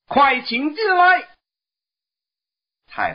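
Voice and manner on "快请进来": high monkey voice calling out in a rush; eager call. Acted. Monkey King hurriedly calling the envoy inside, high eager call. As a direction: hurry the guest in, high and bright. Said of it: "他忙叫道".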